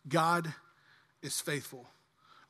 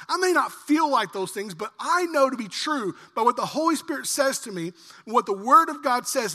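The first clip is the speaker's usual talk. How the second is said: louder, higher, firm refusal to give in; defiant declaration; 4 semitones higher, 4 dB louder than usual. Acted. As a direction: stand your ground against Satan, insistently. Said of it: "And you go".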